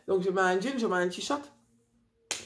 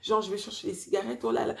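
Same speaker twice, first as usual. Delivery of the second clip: agitated; 4 semitones higher than usual. Retold or imitated. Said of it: "j'étais un peu agitée".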